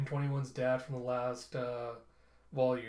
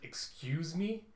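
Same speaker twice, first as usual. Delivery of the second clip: angry; 4 semitones higher, much slower than usual. Retold or imitated. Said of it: "And Ozris gets mad".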